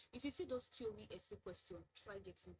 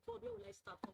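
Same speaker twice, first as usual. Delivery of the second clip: panicked plea; 13 semitones higher than usual. Retold or imitated. Panicked retold plea to God.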